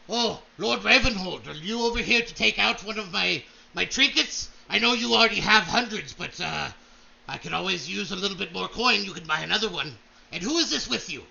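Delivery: a hearty salesman greeting; Brom voice. Acted. Brom greeting Lord Ravenhold, hearty merchant voice.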